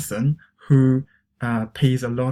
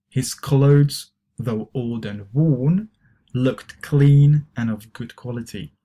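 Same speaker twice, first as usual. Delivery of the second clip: model reading; 4 dB louder, slower than usual. Shown as a demonstration. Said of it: "try to pronounce these expressions".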